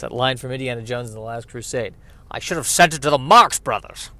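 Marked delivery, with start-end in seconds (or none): 2.3-4.1 a hint of Scottish Connery, louder; Sean Connery impression, louder. Quoting Indiana Jones as Sean Connery, louder mock Scottish. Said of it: "are you trying to do Sean Connery?".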